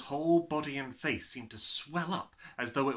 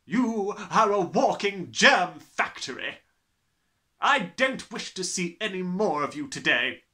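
slow bellowing; 9 semitones higher, 11 dB louder than usual. Acted. Trunchbull raging.

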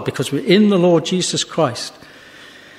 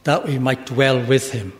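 lower, measured preaching with long pauses; solemn closing exhortation; 3 semitones lower than usual. Real, not acted. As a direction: bring the sermon gently to rest.

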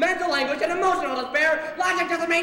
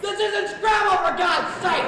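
exasperated outburst; 5 semitones higher, 4 dB louder than usual. Acted. Exasperated at guests listing adjectives.

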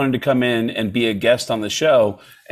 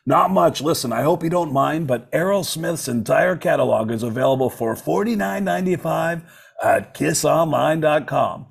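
Impression of a rock musician; 3 semitones higher than usual. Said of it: "this is how we communicate".

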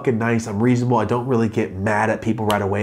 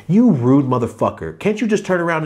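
indignant; 6 semitones higher, 4 dB louder than usual. Retold or imitated.

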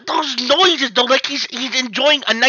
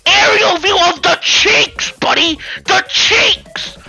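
outraged shouting; 5 semitones higher than usual. Real, not acted. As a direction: yell in disbelief. Outraged at the pic.

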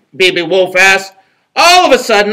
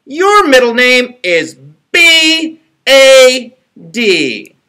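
high, slow spelled out; squeaky piglet; 8 semitones higher, 8 dB louder, much slower than usual. A narrator's reading. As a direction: spell each letter squeakily. Little pig spells out.

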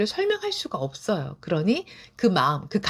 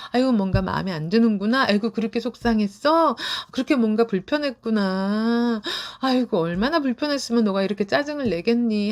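put-on gently comforting an upset child; soothing mom; 4 semitones higher than usual. Shown as a demonstration. Mother soothing her angry five-year-old, tender. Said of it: "이렇게 안아주면서 다독다독 해주세요".

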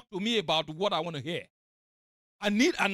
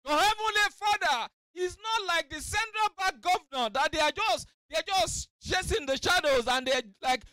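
fiery sermon delivery; preaching; 7 semitones higher than usual. Acted. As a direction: preach it out to the congregation. Preacher at full force.

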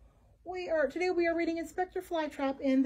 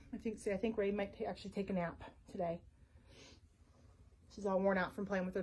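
quiet; 5 semitones lower, 9 dB quieter, faster than usual. Real, not acted. Dog sleeping nearby.

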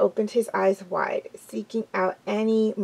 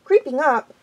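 higher-pitched offended echo; indignant; 4 semitones higher than usual. Acted. Graypaw accused by his friend, indignant. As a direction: throw it back in indignation. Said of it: "eyes were round with indi".

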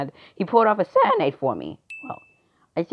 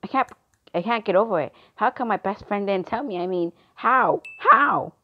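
hurt disbelief; 5 semitones higher than usual. Acted. Upset over best friend's betrayal.

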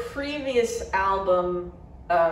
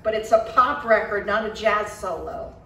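louder heated retort; angry; 2 semitones higher, 7 dB louder than usual. A narrator's reading. Bandmate arguing about a pop record, angry. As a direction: fire back in frustration. Studio argument continues.

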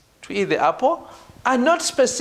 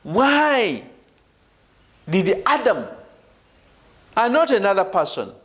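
deliberate pauses round a stressed "Adam"; contrastive stress on Adam. Shown as a demonstration. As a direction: isolate "Adam" against another person. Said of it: "you know we are contrasting".

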